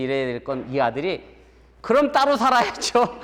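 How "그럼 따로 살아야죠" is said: put-on high, louder bratty kid answer; cheeky child's voice. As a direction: toss it off like a smug little boy. Son's cheeky punchline answer.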